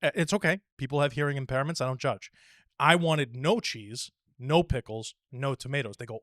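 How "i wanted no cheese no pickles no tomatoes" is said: slow, itemized, pause after each item; patient over-clear order. Acted. Modelling a customer repeating the order to staff, slow and over-clear.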